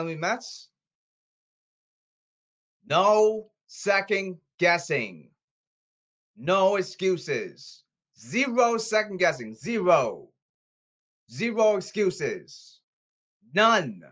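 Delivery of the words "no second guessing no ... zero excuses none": slow, hammered NO, ZERO and NONE; emphatic ultimatum. Real, not acted. Ranter warning the Mets, slow emphatic ultimatum on "No", "Zero", "None". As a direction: lay down the law, punching "No", "Zero" and "None". Lays down rules to the team.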